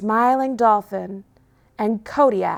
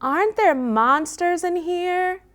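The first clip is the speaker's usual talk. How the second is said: nervous question; 9 semitones higher than usual. Acted. Scared puppy asks.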